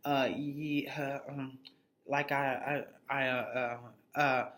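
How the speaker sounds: mock stammer with halting fillers; hesitant, stuttering confession; imitating stuttering. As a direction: trip over the words like a nervous guy. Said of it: "This motherfucker starts stuttering".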